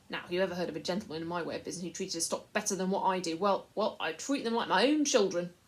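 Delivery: butter up the buyer; wheedling Pug. A narrator's reading. Slaver selling the boy to the lord, fawning.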